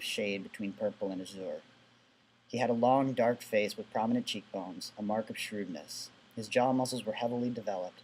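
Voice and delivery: steady read-aloud narration of a novel passage. Acted. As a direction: read it out like a storybook.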